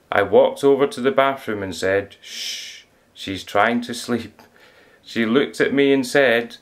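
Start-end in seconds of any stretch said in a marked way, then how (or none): 2.2-4.4 whispered shh, slow and soft; quiet them down gently; hushing whisper. Acted. Hushing children in the bathroom.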